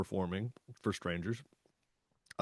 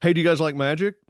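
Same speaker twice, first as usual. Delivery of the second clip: bright, louder hey with a rising tune; upbeat pitch to strangers; 6 semitones higher, 7 dB louder, faster than usual. Retold or imitated. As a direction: call out cheerfully to the next table.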